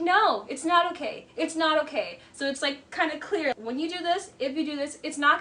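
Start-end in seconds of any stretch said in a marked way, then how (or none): 0.0-2.2 louder, higher mock protest; mock group protest. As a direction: everyone shouting it down, hammed up. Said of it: "everybody's like".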